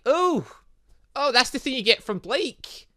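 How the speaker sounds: high, loud delighted ooh; excited. Real, not acted. Player pleased by the intuition boost, loud high ooh. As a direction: squeal at the reward.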